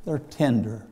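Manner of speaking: a soft, tender aside to the congregation; tender hush. Acted. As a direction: let the word tender sink in gently. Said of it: "Don't you love that?".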